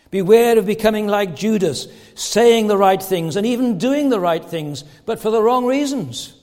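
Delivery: emphatic warning from the pulpit; forceful preaching. Real, not acted. Preacher warns his flock against becoming like Judas, forceful preaching. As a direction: drive the warning home to the congregation.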